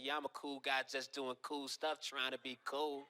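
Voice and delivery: low, slow, quiet cop mockery; sarcastic cop. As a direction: drawl it like a smug cop. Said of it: "He said".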